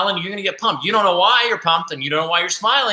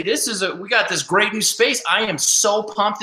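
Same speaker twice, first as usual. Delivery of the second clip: upbeat and pumped, a little higher; excited; 5 semitones higher than usual. Shown as a demonstration. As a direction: share your excitement about the new space. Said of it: "when you're excited, they're excited".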